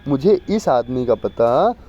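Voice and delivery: slow careful reading of the whole line; slow model sentence. Shown as a demonstration. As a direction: read the corrected sentence slowly for dictation. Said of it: "बड़ा ऊ की मात्रा लगेगी". (धीरे-धीरे साफ़ पढ़ा गया वाक्य)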